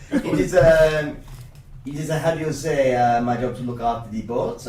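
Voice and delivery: halting attempt at a French accent. Boat's keeper answering the party, in tentative French accent. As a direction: try a French accent with hesitant pauses. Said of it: "I wanna try my French accent".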